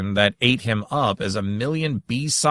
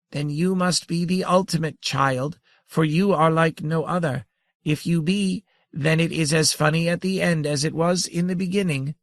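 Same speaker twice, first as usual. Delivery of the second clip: tiny amused grandmother; 7 semitones higher than usual. Acted.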